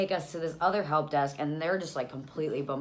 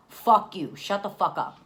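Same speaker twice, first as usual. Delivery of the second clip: loud, raised-pitch telling-off; angry retort; 5 semitones higher, 8 dB louder, slower than usual. Retold or imitated. Young mother to the meddling guy, angry retort. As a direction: shut him down hard. Retort to limo guy's advice.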